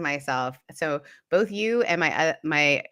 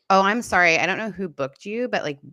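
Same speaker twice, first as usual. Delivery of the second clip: mocking receptionist; 4 semitones higher, 3 dB louder than usual. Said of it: "she literally was talking to me like this".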